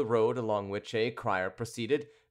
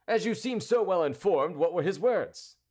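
high, louder, impatient demand; impatient cry; 7 semitones higher, 5 dB louder than usual. A narrator's reading. Cavalier pressing a well-informed Briquet, impatient. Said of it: "cried the cavalier impatiently".

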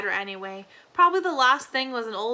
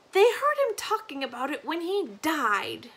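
put-on old granny voice; 4 semitones higher than usual. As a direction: drift off like a confused grandmother.

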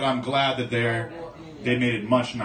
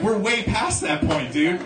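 laughing friend; 3 semitones higher, 3 dB louder than usual. Retold or imitated. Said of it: "And he's like".

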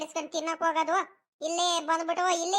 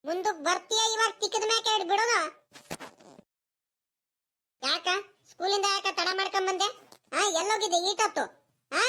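raised-pitch interrogation; scolding; 3 semitones higher than usual. Acted. Grandmother questions grandson late from school, scolding. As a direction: threaten and demand an explanation.

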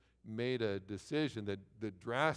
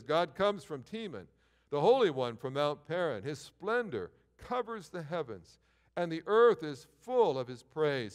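slow, higher, swelling proclamation; scripture reading; 6 semitones higher, 6 dB louder, slower than usual. Acted. A preacher reads Habakkuk three to the congregation, slow and building. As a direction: proclaim it with rising power.

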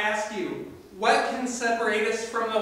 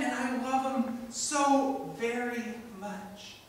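tender; 3 semitones higher, slower than usual. Acted. Father's tender declaration.

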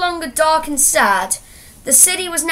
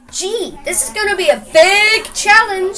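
higher-pitched mock shout in a story; lightly acted shouting; mild shout; 7 semitones higher, 4 dB louder than usual. A narrator's reading. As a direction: call it out high, not full force. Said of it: "shouted Joseph".

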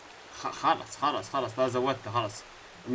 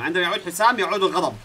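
mock dramatic. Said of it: "هيك أحسن".

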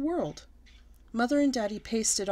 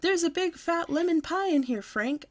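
much higher, slow excited holler; 9 semitones higher, 3 dB louder than usual. Acted. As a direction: yell the news across the house to Grandpa. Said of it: "I hollered".

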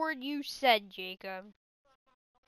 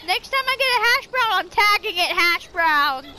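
laughing; 6 dB louder than usual. Real, not acted. Joking plan about the hash brown.

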